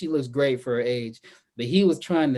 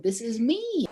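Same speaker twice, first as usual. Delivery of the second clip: mock smooth guy; 8 semitones higher, 3 dB quieter than usual. Quoting Marcus's smooth pickup line.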